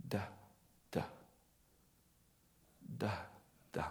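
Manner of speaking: slow, halting baby syllables, voiced lightly; child's first word. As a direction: mimic a small boy straining out his first word. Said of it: "The first word came painstakingly slowly".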